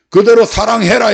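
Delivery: usual speaking voice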